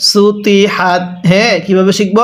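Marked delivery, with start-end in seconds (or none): 0.1-1.0 সুতি হাত with heavy t in "ti" and held vowels; correct recitation. Shown as a demonstration. Teacher showing how it must be read, correct recitation. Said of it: "তাহলে কিভাবে পড়তে হবে?".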